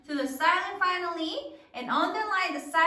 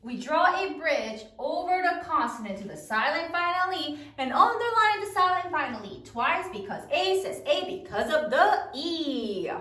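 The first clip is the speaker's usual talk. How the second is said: choral recitation; 2 semitones higher than usual. Shown as a demonstration. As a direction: lead everyone through the rule together. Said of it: "Again, say it with me".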